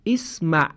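اسمع said clearly with an opening "i" vowel, "ismaʿ"; model pronunciation. Shown as a demonstration. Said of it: "همزهٔ وصل در فعل امر". (تلفظ نمونهٔ اسمع با کسره)

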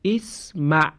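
اسمع read with an opening "i" vowel; model pronunciation. Shown as a demonstration. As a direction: read اسمع for the class, starting with "i". (اسمع را با کسره بخوان)

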